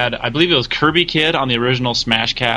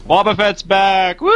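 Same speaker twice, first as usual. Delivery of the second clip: excited cheer; 7 semitones higher, slower than usual. Real, not acted. Excited cheer at returning character.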